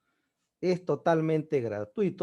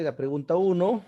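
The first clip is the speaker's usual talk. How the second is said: slow, clear dictation of answers; teacher dictating the answers to the class. Shown as a demonstration. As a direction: read the answers out slowly.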